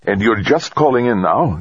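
high, indignant challenge; demanding. A narrator's reading. Base operator challenges the astronaut's late call, demanding. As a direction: demand to know why he waited. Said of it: "Dezhurova demanded".

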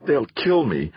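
high-pitched inner cry, contained; roared. A narrator's reading. Theo's inner voice as he is attacked, roared. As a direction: roar it inwardly, pitch jumping up. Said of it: "roared a voice in his head".

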